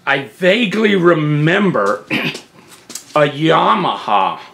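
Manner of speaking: rough, gravelly throat. Real, not acted. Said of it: "if I sound gravelly or whatever".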